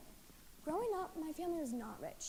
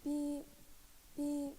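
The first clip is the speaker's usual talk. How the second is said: spoken mock monitor beeps; heart monitor beep. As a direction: imitate a heart monitor beeping. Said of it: "beep went the sound of the heart monitor".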